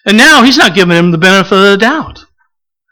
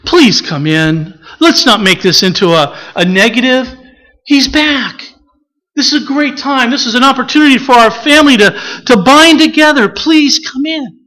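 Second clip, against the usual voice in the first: gentle pleading; 3 semitones higher than usual. Pretend. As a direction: plead tenderly with the son.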